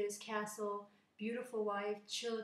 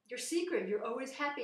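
demanding king; 4 semitones higher, 5 dB louder than usual. Acted. King demands the page's secret.

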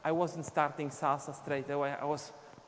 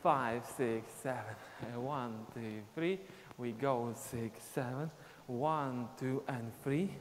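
slow, steady dance count, a bit softer; slower count; 3 semitones lower, 4 dB quieter, slower than usual. Shown as a demonstration. Teacher counts the retry slower. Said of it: "One more time slower".

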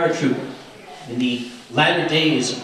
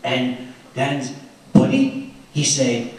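put-on French accent; 4 semitones lower than usual. Teller voicing Josie telling the real story, light French accent. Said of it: "that accent I love so much".

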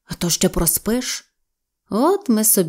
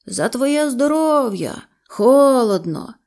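slow, drawn-out call from the water, higher; calling out a toast; 5 semitones higher, slower than usual. Acted. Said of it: "чую, гукає". (протяжно гукає здалеку)

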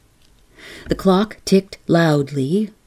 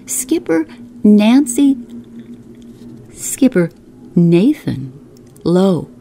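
called out from the doorway; calling out; 3 semitones higher, 3 dB louder than usual. Acted. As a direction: raise the voice to announce a visitor. Guest calls out at door.

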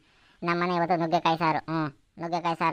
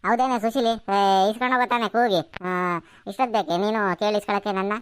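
acted exasperated old woman; scolding granny; 3 semitones higher than usual. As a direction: chide the neighbour for all the calling. Granny scolds Susheeli for shouting.

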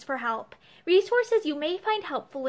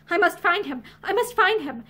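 feverish; 3 semitones higher than usual. Acted. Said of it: "she said feverishly".

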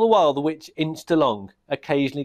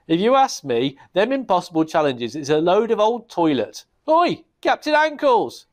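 higher, louder rough goblin calling out; complain, then yell for the captain; goblin king; 7 semitones higher, 4 dB louder than usual. Acted.

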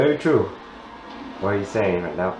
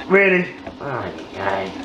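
exasperated disbelief; 3 semitones lower than usual. Real, not acted. Boss hit not counting.

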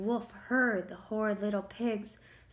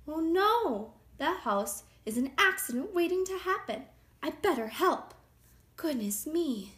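higher, concerned storybook wolf; worried wolf; 7 semitones higher, 4 dB louder than usual. A narrator's reading. Wolf sees the tangle of twigs, worried. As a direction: fret as the friendly wolf.

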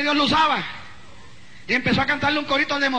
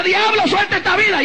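exorcist's command; 5 semitones higher than usual. Acted. Acted command to the devil.

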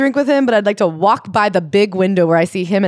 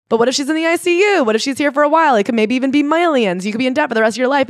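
worried warning; 5 semitones higher, faster than usual. Retold or imitated. Clerk warning about costs.

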